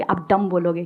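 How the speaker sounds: "डम" said with no b sound, ending on m; silent B. Shown as a demonstration. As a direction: say "डम", closing on the m. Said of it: "क्योंकि बी silent है".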